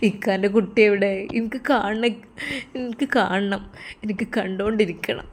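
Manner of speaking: put-on a touch of tearful longing for his girl; mild crying lament. Sinan to his friend, grieving for his love, mildly tearful. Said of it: "Sinan ഒരു ഭ്രാന്തനെ പോലെ കരയുകയാണ്".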